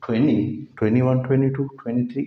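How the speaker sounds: "ट्वेंटी" as "twenny"; American silent T. Shown as a demonstration. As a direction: drop the second T in every "ट्वेंटी". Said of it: "टी की आवाज़ नहीं देते".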